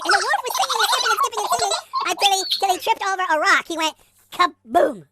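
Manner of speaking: high, loud, rushing narration; excited storytelling. A narrator's reading. Storyteller races through the skipping wolf's tumble, excited.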